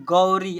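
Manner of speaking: गौरी with a full au and long ee; model pronunciation. Shown as a demonstration. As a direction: read गौरी out clearly as gau-ree. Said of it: "ऐसे पढ़ेंगे". (गौरी का साफ़ उच्चारण, गौ-री)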